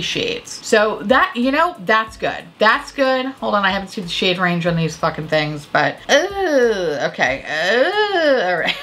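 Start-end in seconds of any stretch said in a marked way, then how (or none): 6.1-8.8 surprised ooh. Real, not acted. Reacting to shade range.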